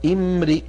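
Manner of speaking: "امرئ" begun with "i", then "i" after the r; starting on the word. Shown as a demonstration. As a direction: start cleanly on "امرئ", as "imri'". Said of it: "نبدأ بها". (بدء «امرئ» بهمزة مكسورة)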